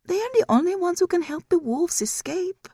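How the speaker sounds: high, otherworldly; high eerie demon voice; demon mother's voice. Acted. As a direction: tell it as a demon who enjoys it.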